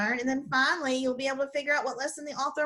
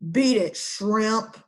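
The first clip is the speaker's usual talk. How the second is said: slow, louder growl; growling Doberman; 2 semitones lower, 3 dB louder, slower than usual. Acted. Doberman chasing Alfred off, slow growl. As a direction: growl it slow like a tough dog. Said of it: "growled a Doberman".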